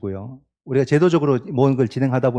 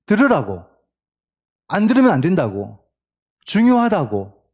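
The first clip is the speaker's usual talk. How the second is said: lightly acted insistent raised voice; mild mock yelling; 3 semitones higher than usual. Preacher voicing why people shout at someone, mild mock yelling. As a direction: imitate someone yelling to be heard, without a full shout. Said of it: "소리 지를 때 왜 지릅니까".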